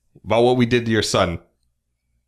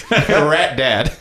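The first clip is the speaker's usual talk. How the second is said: calling out; 5 semitones higher, much slower than usual. Pretend. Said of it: "I'm calling to him".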